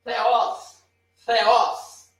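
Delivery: airy, almost F-like start on THEOS; aspirated T. Shown as a demonstration. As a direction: blow lightly through the first sound of THEOS. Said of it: "É um T meio soprado".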